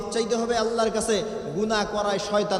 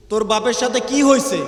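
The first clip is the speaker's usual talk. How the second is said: uncle asking louder; 2 semitones higher, 8 dB louder than usual. Retold or imitated. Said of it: "গিয়া বলে".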